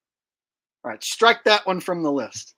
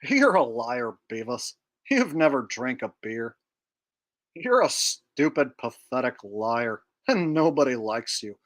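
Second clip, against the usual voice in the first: Butthead; 2 semitones lower than usual. Acted. Mocking his buddy as a liar, Butthead impression. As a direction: draw out the dim-witted insults. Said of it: "a Beavis and Butthead impression".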